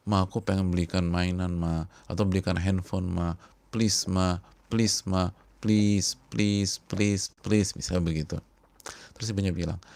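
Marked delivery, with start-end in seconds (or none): 0.1-7.7 put-on whining child. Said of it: "anaknya merengek".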